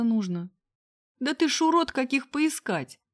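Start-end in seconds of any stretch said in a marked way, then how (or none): 1.2-3.0 high shriek slowing on the end; shrill abuse. A narrator's reading. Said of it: "Никак не успокаивалась барышня". (визгливая ругань барышни)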